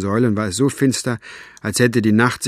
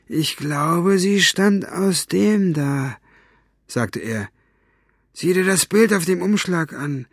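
higher, rough henchman voice, smug; brutish henchman Buster; 7 semitones higher than usual. Acted. Buster telling Capricorn the girl read it out, smug and rough. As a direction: play Buster gloating over the fairy.

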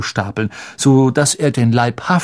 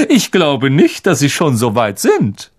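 high, showy condescending lecture; vain teacher, patronizing; 3 semitones higher than usual. Acted. Lockhart lectures Harry privately, patronizing. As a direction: lecture him like a smug star.

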